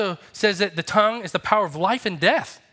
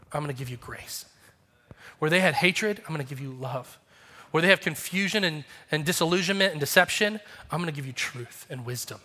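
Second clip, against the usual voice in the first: gentle Jesus promise; 3 semitones lower, 3 dB quieter than usual. Acted. Jesus speaking at the cross.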